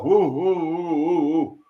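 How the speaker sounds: string of short woos, trailing down; dazed woo-woo noises; imitated reeling. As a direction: mimic someone wobbling after a blow. Imitates the man reeling from blow.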